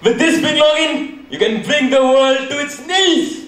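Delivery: laughing, villainous glee; gloating laugh. Acted. Hacker gloats over power.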